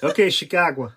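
easy native Chicago accent; Chicago with a broad Chicago "kah". Shown as a demonstration. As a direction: say it like you grew up near Chicago. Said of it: "There you go".

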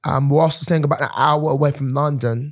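sustained put-on London accent; playful amateur London accent; mock London accent. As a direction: keep chatting in a fake London accent.

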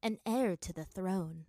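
stately, understated proclamation; proud. Acted. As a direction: announce a royal title with pride. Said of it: "she announced proudly".

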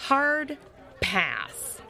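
high, loud start dropping on the last word; emphatic refusal. Acted. Lupo refuses Cody's plan to eat, emphatic refusal.

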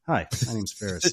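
casual, unhurried introduction; calm. Retold or imitated. Ferris greeting girls mid-run, calm and casual. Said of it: "turns around all calmly".

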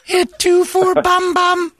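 emotionless robot. Acted. Robot menu voice.

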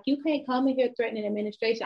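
a hint of a high, prissy principal; lightly mocking the principal's scolding; principal quoted. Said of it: "she was like".

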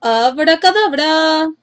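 high, slow magic call; drawn-out witch's incantation; called spell. A narrator's reading. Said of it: "la agitó y gritó".

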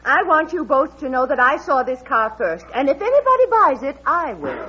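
sharply staking a claim. Acted. Woman to strangers examining the abandoned car, sharp. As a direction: put the strangers firmly in their place. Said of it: "I spoke sharply to you before".

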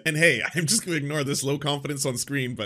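sarcastic. Retold or imitated. Sarcastic repeat of host's claim.

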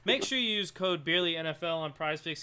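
quick sponsor plug; ad read. Acted. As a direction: read the promo line.

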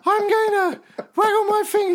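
very high squeaky mock voice; squeaky little voice. Mocking a small man scolding the empress, very high squeaky voice. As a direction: play a tiny man squeaking up at a tall woman.

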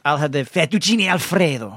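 imitating mom's over-the-top Italian accent; hammed-up Italian on "fettuccine Alfredo"; extreme foreign-food accent. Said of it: "when you put it to that extreme".

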